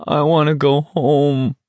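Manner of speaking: thin, plaintive murmur; very quiet plea. A narrator's reading. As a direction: say it small and forlorn, longing for home. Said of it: "someone behind Garrity said, very quietly".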